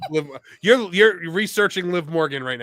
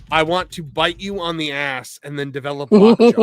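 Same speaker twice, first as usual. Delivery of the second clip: reading the quote out louder; 6 dB louder than usual. Retold or imitated. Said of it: "he wrote on the autograph".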